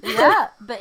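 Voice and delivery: high laugh then slow words through it. Real, not acted. Host recovering from laughter, high and slow. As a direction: laugh it out and talk slowly.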